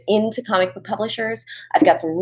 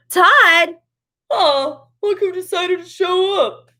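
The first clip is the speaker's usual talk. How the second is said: high squeaky sing-song greeting; bright squeaky sing-song welcome; 11 semitones higher, slower than usual. Real, not acted. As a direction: squeal a teasing hello. Greeting Todd joining the stream.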